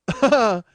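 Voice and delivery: loud, high burst of laughter. Real, not acted. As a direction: laugh out loud at your own story. Laughs at own story.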